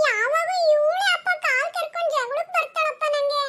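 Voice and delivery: slow, drawn-out tattling whine; whining blame. Acted. Child blames sister to father, whining. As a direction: tattle on your sibling plaintively.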